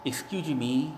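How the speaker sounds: imitating a shy stranger's meek "Excuse me". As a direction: ask "Excuse me" meekly, barely daring to interrupt. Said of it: "in a very meek voice".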